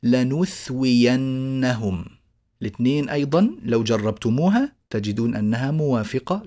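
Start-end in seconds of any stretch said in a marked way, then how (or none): 0.0-2.1 slow recitation. Shown as a demonstration. Teacher reciting a reading.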